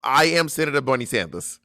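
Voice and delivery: put-on emphatic accented senator announcing himself; formal, punchy political impression; Bernie Sanders. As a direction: declare it proudly in an old politician's voice. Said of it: "I'm gonna do a voice".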